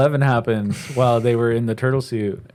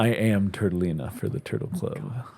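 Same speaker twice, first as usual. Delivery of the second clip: soft, low turtle voice; hint of a sleepy old turtle; slow creaky tortoise; 3 semitones lower, 6 dB quieter than usual. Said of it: "so that's your turtle voice".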